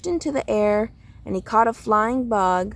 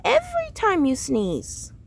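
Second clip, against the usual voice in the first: grandpa's blessing; 4 semitones higher than usual. Acted. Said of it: "and said".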